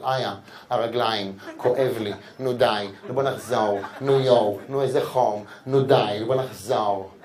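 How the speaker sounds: low, slow mock whine of a tired girlfriend; whiny girlfriend.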